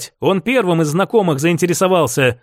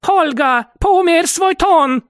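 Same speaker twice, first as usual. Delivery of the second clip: higher, slow, other woman's voice cutting in; intervening sternly; 10 semitones higher, slower than usual. Acted. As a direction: stop her mid-quarrel. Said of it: "вмешалась Йоханна".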